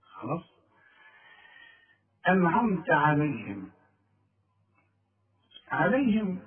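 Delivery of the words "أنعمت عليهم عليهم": عليهم with thin, light sounds; all light letters. Shown as a demonstration. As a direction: keep عليهم light throughout. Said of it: "كلها مرققة". (عليهم بترقيق)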